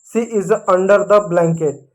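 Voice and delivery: very slow, word by word; slow model sentence. Shown as a demonstration. Teacher showing kids the sentence, very slow. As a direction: read it out slowly to the class. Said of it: "कंबल को अंग्रेजी में blanket बोलते हैं".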